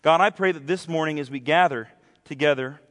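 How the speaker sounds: measured prayer with long pauses; unhurried, reverent public prayer. Real, not acted. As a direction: pray aloud for the congregation, phrase by phrase.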